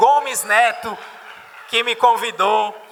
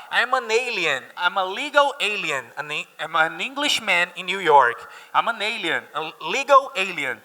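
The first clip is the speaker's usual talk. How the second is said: song lyric quote; 3 dB quieter than usual. Shown as a demonstration. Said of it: "Ele fala".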